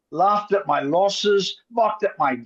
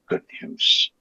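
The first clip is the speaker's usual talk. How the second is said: whisper. Acted. Whispered relish.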